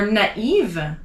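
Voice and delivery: "naïve" in two syllables, na-EEV; tréma emphasized. Shown as a demonstration. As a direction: separate the a and i of "naïve". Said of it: "emphasize the letter I".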